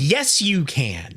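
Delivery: slow, drawn-out deadpan reply. Retold or imitated. Dad answering the snooty moms, slow deadpan. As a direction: answer them with dry cheek. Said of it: "And you're like".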